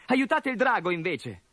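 put-on high, bright boyish voice; a grateful young orc, pitched high. Boy urges help for dragon.

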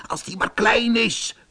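small, high mouse voice; squeaking mouse. A narrator's reading. Mouse insists the human be small, squeaking high. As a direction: squeak it out high, without force. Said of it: "piepte de muis".

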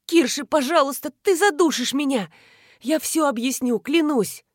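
high strained plea; high frightened pleading; choked begging. Acted. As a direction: beg while being throttled.

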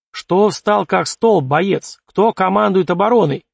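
slow, loud commanding bark; barking order. Acted. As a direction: snap him out of his freeze. Officer barks at frozen soldier.

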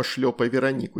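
ordinary delivery, nothing marked

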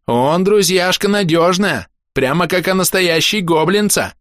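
high, drawn-out goblin voice; insistent high-pitched goblin; earnest goblin. A narrator's reading. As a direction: vouch for a pal in a high goblin voice. Goblin vouches for friend in broken speech.

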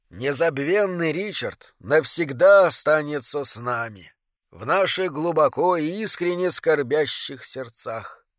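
soft solemn eulogy voice; funeral eulogy. Acted. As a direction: speak softly like a mourning preacher. Похоронная речь из записи. (тихая торжественная надгробная речь)

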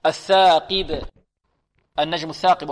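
الثاقب with a clear short "qi" and bounced ب; careful model reading of الثاقب, pure kasra on ق; lightest-grade qāf. Shown as a demonstration. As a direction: keep ق in الثاقب light, a true "i" after it. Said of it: "فمرتبة المكسور في أقل مراتب التفخيم".

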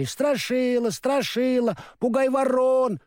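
put-on children calling out merrily; lightly voiced happy kids shouting; cheerful shout. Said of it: "Дети фермера весело закричали".

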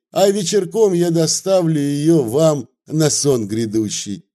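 выше, бойкий угодливый говорок; заговаривает гостю зубы, угождая; Вавила, радушно заговаривает зубы. Acted. (бойкий угодливый говорок)

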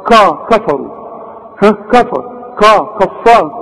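"كفروا" with a thick, backed KA; wrong heavy Kaf. Shown as a demonstration. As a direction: weigh down the K syllable in "كفار". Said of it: "كل ده غلط". ("كفار" بكاف مفخمة غلط)

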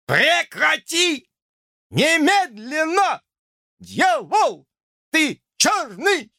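high, slow clipped-off yells; choppy protesting shouts. Acted. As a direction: protest in jerky bursts while shaken. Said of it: "отрывисто протестовал он".

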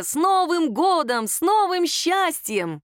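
slow, high, ringing New Year greeting; festive cheer. Acted. The family toasts the New Year, slow and high.

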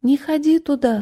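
high thin voice; a small high voice; thin little voice. Acted. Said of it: "тоненьким голоском".

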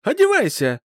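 high, loud barked order; mother shouting over his refusal. A narrator's reading. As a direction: yell him into his coat. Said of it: "прервала его криком".

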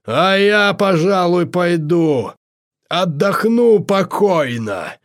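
high, put-on voice, slowing into a drawl at the end; high-pitched figure slipping away to rest; begging off. A narrator's reading. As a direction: excuse yourself in a high character voice. Viktor Ivanovich excuses himself to rest.

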